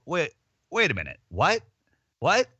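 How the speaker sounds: startled realisation; surprised double take. Retold or imitated. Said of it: "They go".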